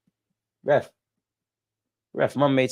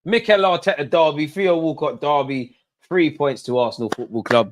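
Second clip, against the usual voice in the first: triumphant proclamation; 4 semitones higher, 4 dB louder than usual. Real, not acted. Declaring the win.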